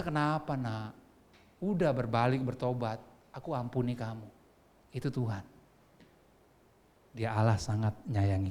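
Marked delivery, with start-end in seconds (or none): 0.0-4.3 lower, gentle reassurance; calm the child with quiet forgiveness; forgiving father. Acted. God forgiving his repentant child, gently tender. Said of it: "Tuhan itu".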